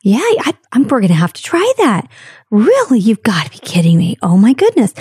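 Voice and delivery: imitated gushing listener, pitch swooping high; mock-enthusiastic people-pleasing reactions; actively listening. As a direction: play up the polite amazement, putting it on. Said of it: "you know, actively listening".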